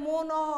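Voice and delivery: "মন" opened into two syllables, mo-naw; added final vowel. Shown as a demonstration. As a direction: let "মন" end on a drawn-out অ sound. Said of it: "যদি হসন্তটা না দেই". ("মন" হসন্ত ছাড়া, শেষে অ টেনে: মোনঅ)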